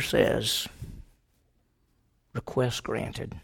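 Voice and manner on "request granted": slow grave verdict. Acted. Commandant's grave reply.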